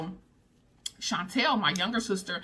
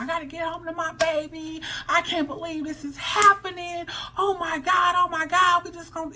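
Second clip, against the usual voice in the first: sister bawling; 9 semitones higher than usual. Retold or imitated. Sister sobbing for her baby in interrogation, high mock wail. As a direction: voice the sister crying in panic, much higher. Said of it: "I hear my sister just bawling".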